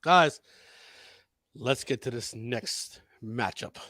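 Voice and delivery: wrestling announcer calling a matchup; deliberate ringside announcer delivery; wrestling commentary. Pretend. Live wrestling play-by-play call.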